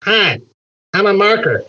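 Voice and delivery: talking without moving lips; ventriloquist voice. Shown as a demonstration. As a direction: marker voice through still lips. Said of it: "I'm gonna make this marker talk".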